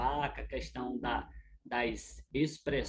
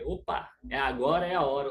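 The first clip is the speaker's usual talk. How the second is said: alert realization; 5 dB louder than usual. Retold or imitated. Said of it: "você vai pegar e vai".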